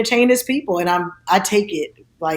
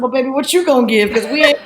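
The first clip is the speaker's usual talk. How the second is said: imitating mom; 4 semitones higher, 4 dB louder, faster than usual. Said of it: "she said".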